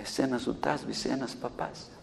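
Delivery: the devil admits defeat, almost under the breath. Retold or imitated. Devil conceding to the minister, soft and low. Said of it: "ο διάβολος τώρα από μέσα της".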